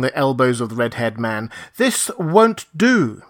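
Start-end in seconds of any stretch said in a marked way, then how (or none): 1.8-3.2 lisping, slow. A narrator's reading. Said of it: "with his lisp a little accentuated".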